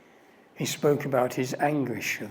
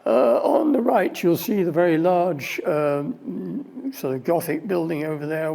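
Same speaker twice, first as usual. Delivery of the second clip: tour guide commentary; 3 semitones higher, 4 dB louder than usual. Retold or imitated. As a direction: point out the sights like a tour guide.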